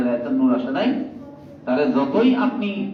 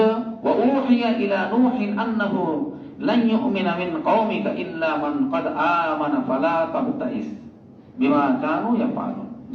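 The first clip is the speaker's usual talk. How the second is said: verse recited with lengthened vowels; Quran recitation; 3 semitones higher, slower than usual. Acted. Preacher citing the next verse to listeners, measured recitation. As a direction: recite scripture in a measured flow.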